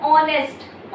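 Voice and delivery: ऑनेस्ट broken after the opening O; ऑनेस्ट in two beats, o-nest; pause after first syllable. Shown as a demonstration. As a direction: hold back after the O of ऑनेस्ट, then finish. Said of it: "ओ पे रुक गए".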